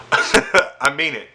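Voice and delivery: slow, chuckling through the words; laughing aside. Real, not acted. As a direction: laugh while insisting.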